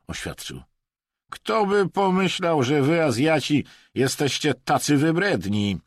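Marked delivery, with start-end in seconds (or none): 1.3-5.8 mocking. A narrator's reading. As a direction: taunt with exaggerated amazement. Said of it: "zakpił Wadim". (głośna kpina, wysoki głos)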